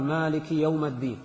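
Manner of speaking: "يوم" said yawma, with a in place of i; fatha on mim. Shown as a demonstration. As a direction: recite the slip يومَ in "يوم الدين". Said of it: "بفتح الميم".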